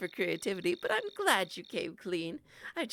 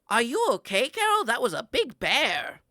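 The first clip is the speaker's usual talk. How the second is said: put-on loud, high excited old lady; proud and breathless; excited grandma; 6 semitones higher, 10 dB louder than usual. Grandma after bear fight.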